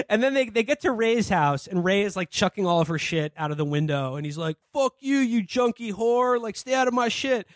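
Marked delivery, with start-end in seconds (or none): 4.7-7.5 raised, higher snarl of a mock tirade; mock angry yell. Ray yelling at the junkie mom from the window, raised mock fury. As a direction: play the boyfriend tossing her stuff, half-hammed.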